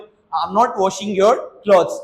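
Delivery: very slow with "not" weighted; slow model negative, lean on "not"; stress on not. Shown as a demonstration. Teacher voicing mom's refusal, "not" stressed slowly. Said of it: "नहीं, नहीं, मैं तेरे कपड़े नहीं धो रही हूँ".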